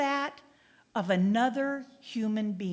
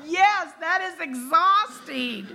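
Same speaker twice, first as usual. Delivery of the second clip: laughing; 6 semitones higher, 5 dB louder than usual. Real, not acted. Reacts to forgiving 490 times.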